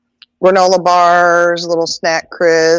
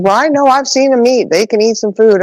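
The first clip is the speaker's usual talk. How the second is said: neighbor's voice; 6 semitones higher than usual. Retold or imitated. Voicing the neighbor Shirley.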